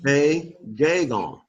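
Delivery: a gagon said slowly, no h sound; slow model. Shown as a demonstration. Teacher modelling a gagon slowly, with no h. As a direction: sound out a gagon without the breath. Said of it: "not gonna make a huh sound".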